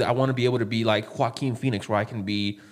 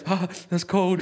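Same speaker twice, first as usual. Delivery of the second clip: slow, high, cold remark; drawled Goblin line; 5 semitones higher, slower than usual. Retold or imitated. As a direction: say it slow and cutting. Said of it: "He just said".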